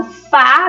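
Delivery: fá singled out and lengthened; stressed syllable. Shown as a demonstration. Teacher pointing out the tônica of sofá, fá lengthened. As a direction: lean on fá, holding it a little. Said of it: "ela é mais forte".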